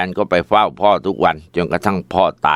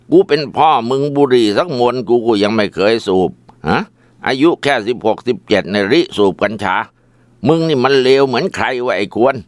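raised, scolding rant at a worthless son; angry father; 4 semitones higher than usual. Acted. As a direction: berate him, pitched up and indignant. Father berates son after beating.

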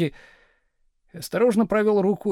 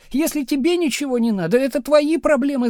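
high, louder shout; 9 semitones higher, 6 dB louder than usual. A narrator's reading. Wife shouting at her indifferent husband, higher and louder. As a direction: yell it at him. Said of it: "закричала Надя".

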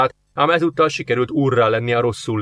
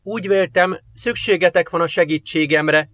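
soft murmur; 5 semitones higher than usual. A narrator's reading. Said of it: "dünnyögte lágyan Afriel".

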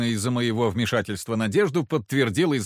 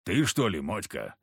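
low grumble; 3 semitones lower, 3 dB quieter than usual. Acted. Kharisim voiced low.

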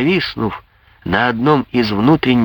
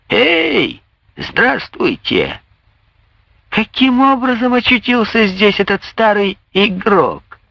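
mocking jeers; 8 semitones higher than usual. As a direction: jeer at the rector in a high voice. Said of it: "первый залп".

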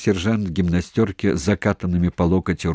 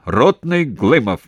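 soldier's report; 5 semitones higher, 5 dB louder, slower than usual. A narrator's reading. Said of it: "отрапортовал".

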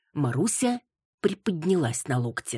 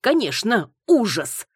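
indignant agreement; 6 semitones higher, 5 dB louder than usual. A narrator's reading. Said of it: "подтвердила дама".

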